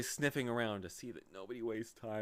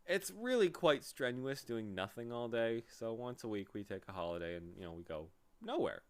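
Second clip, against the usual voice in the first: conciliatory. Acted. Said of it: "in a more conciliatory tone".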